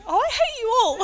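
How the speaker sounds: high, laughing fond complaint; teary laughing mock scolding; laughing through tears. Real, not acted. Breaks down laughing at family.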